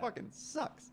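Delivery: breathy whispered gripe. Real, not acted. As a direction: mutter it under your breath. Muttered complaint after laughing.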